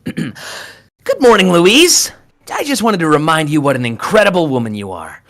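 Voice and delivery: tender Rocky voice. Acted. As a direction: charm her gently with sincere praise. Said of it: "can Rocky please say".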